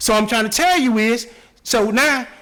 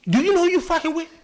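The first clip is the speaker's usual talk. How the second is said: raised, heated inner rant; a savage's inner rant, pitched up; thinking angrily; 3 semitones higher than usual. Retold or imitated. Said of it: "but he be thinking".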